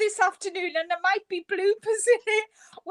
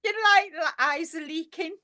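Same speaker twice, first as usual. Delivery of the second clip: laughing to tears. Real, not acted. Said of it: "I'm laughing so much".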